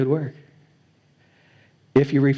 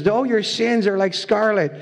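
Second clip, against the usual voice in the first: higher, slow solemn quote; voicing God; 7 semitones higher, slower than usual. Preacher voicing God's call to sinners, higher and slow. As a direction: lift it up slow and grave. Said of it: "And he says".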